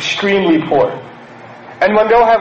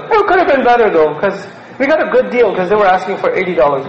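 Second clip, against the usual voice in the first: laughing brag; 3 semitones higher than usual. Retold or imitated. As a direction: show off while laughing it off. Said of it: "Some of you elders do this".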